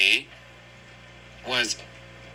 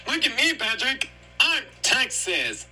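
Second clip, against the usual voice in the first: SpongeBob voice; 11 semitones higher than usual. Acted. SpongeBob showing off to Patrick, high. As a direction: proudly announce it in a high voice.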